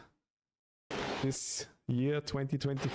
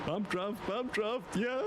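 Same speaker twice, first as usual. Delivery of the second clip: excited; 9 semitones higher than usual. Real, not acted. Cheering a bump draft.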